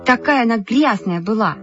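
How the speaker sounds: high, scornful retort; indignant denial. A narrator's reading. Lyuska rejects the charge about the book, indignant. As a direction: deny it with disgust, pitched high. Lyuska hotly denies the accusation.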